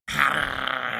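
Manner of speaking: a loud scornful "ha"; mocking snort. Tracker scoffing at the soldier, mocking snort. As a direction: scoff at him. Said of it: "насмешливо фыркнул следопыт".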